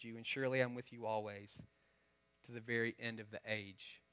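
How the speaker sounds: a reverent recitation of a Bible passage; scripture reading. Acted. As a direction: read it out like sacred words, letting it settle. Reads the Great Commission before prayer.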